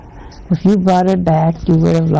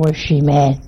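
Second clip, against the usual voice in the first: normal talking voice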